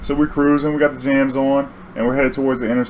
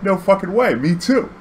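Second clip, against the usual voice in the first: excited disbelief; 9 semitones higher than usual. Retold or imitated. Stoned driver excited to hear this.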